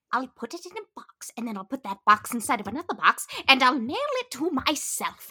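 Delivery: goofy Kronk quote, building to a shout; Kronk impression. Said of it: "I have to pretend I'm Kronk".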